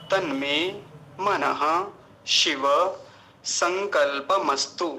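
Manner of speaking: slow यज्जाग्रतो to संकल्पमस्तु, pause after each word; word-by-word pronunciation. Shown as a demonstration. Teacher reviewing the mantra for students, word-by-word pronunciation. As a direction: sound every syllable from यज्जाग्रतो to संकल्पमस्तु. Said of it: "फिर से उच्चारण मोटा मोटा देख लीजिए".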